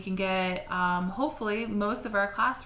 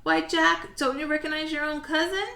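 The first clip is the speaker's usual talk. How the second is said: laughing cousin; 8 semitones higher, 4 dB louder than usual. Acted. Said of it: "the Leprechaun just laughed".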